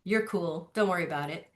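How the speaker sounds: mild cool calming; casual reassurance. Retold or imitated. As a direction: tell the mom to relax easily.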